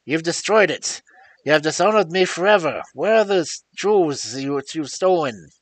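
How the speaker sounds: father berates his son for the stolen jewels; enraged accusation. A narrator's reading. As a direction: rage at the ruined coronet. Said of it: "beside myself with rage".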